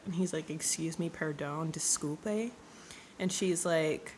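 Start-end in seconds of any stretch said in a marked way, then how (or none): 0.5-2.5 low, soft mock protest; understated disbelief. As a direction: query it quietly, lifting only the last word. Hero balks at gypsy's price.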